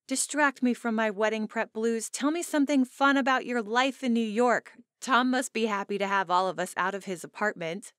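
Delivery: high, loud, lively friend on the phone; bright bride-to-be friend. Acted. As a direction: play the chatty bride teasing about her mother.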